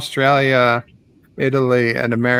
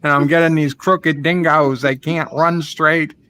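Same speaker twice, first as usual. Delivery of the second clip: a hammed-up Australian accent, lightly done; lightly voiced Australian caller ranting about dingoes; mock Aussie accent. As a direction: play a blustering Aussie neighbour on the phone, mock Aussie twang. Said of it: "I do it as Ozzy Opre".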